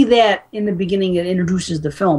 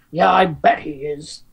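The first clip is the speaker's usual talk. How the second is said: put-on drunk father; 3 semitones lower, slower than usual. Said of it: "he's like, he goes".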